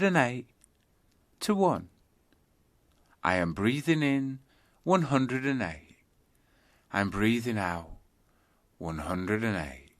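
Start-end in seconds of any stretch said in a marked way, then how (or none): 3.2-6.0 counting on the in-breath. Shown as a demonstration. Teacher demonstrating the in-breath count, slightly lifted. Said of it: "start counting your breaths backwards". 6.9-9.9 counting on the out-breath. Shown as a demonstration. Teacher demonstrating the out-breath count, settling lower. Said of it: "start counting your breaths backwards".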